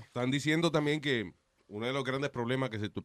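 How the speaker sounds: talking with food in mouth; words around a bite; chewing while talking. Real, not acted. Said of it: "perdón, estoy comiendo".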